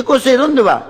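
high, hearty shouted greeting; fellow countryman. Acted. Countryman spotting him on a packed bus, high calling out. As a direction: holler across a crowded bus. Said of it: "se encuentra con un paisano".

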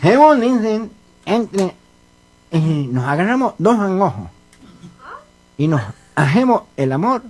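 nasal cleft-palate speech; mock nasal speech impediment; gangoso. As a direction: talk through the nose with blurred consonants. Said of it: "vos sos un gangoso igual que yo".

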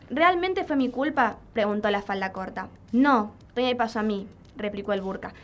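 measured recitation with pauses between the voices; poem recital. Acted. Radio guest shares a poem about victim blaming, lightly dramatised recital.

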